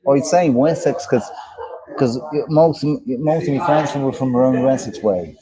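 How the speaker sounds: Dublin-style accent; Irish accent. Shown as a demonstration. Host explaining where friends came from, Irish accent. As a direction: keep up the put-on Irish accent. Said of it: "the Dublin, you know, or from around that way".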